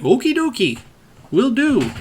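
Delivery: high, light sing-song reply; chirpy imitation. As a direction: answer high as an eager-to-please sidekick.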